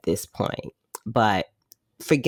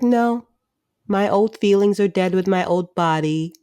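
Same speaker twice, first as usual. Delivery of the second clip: raised, overly sincere reassurance; high mock earnest voice; 5 semitones higher than usual. New Joe assuring his friends, high mock sincerity. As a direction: squeak it out like a brave kid. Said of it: "New Joe's like".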